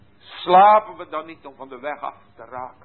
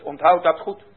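normal talking voice

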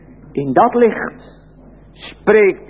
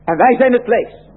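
boastful voice; 6 semitones higher than usual. Acted. Preacher repeats the boasters' claim.

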